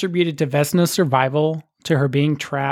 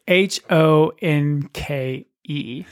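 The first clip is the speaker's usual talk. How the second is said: spelled out slowly; much slower than usual. Shown as a demonstration. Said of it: "couldn't find the pronunciation".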